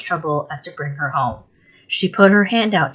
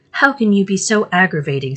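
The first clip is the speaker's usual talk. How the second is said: tearful; 3 semitones higher than usual. Acted. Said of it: "shedding more tears than before".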